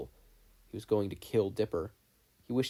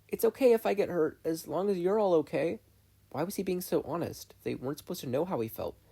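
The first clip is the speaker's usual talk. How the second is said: put-on resigned boy voice; 8 semitones higher than usual. Voices Dipper, hopeless and resigned.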